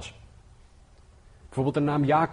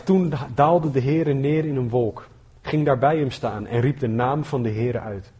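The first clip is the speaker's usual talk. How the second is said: scripture reading. Acted. Reads Exodus passage aloud.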